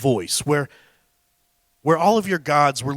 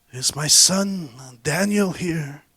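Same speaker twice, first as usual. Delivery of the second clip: weak voice; slower than usual. Retold or imitated. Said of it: "with a weak voice".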